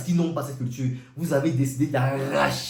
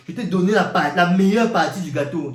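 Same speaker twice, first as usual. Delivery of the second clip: loud, raised reproach; indignant reproach; 3 semitones higher, 7 dB louder than usual. Retold or imitated. God reproaching the ungrateful brother, loud and indignant. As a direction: hammer home what was given.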